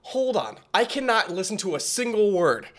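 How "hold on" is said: stunned halt. Real, not acted. Stops track, overwhelmed by rap.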